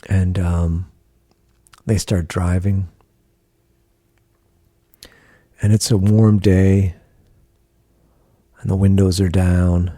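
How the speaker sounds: unhurried meditation voice with long pauses; guided meditation. Acted. Guiding a listener through a car ride to the ocean, guided meditation. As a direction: lead the listener gently through a scene, pausing between phrases.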